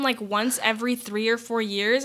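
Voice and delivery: ordinary talk, nothing marked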